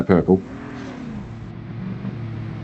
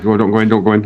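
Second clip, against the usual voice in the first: grenade warning yell; 3 semitones higher, 4 dB louder, much faster than usual. Real, not acted.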